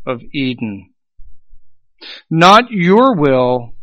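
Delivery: measured quotation with long pauses between phrases; slow, deliberate reading. Real, not acted. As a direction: read slowly so each phrase is grasped. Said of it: "I want to read this slowly".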